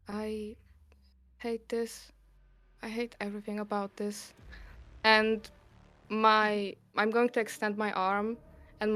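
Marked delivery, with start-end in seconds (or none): 0.1-4.3 muttering. Acted. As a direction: grumble it quietly to yourself. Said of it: "mumble under my breath".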